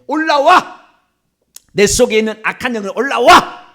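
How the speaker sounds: loud exorcism summons; commanding. Shown as a demonstration. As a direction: punch out the order as a shout. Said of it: "이렇게 명령을 해야 되는".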